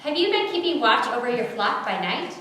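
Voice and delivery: lifted, upbeat request; enthusiastic. A narrator's reading. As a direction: ask it with keen enthusiasm. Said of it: "still enthusiastic".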